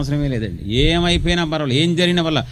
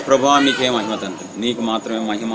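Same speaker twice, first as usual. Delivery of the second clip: quiet prayer; 5 semitones lower than usual. Pretend. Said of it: "అని".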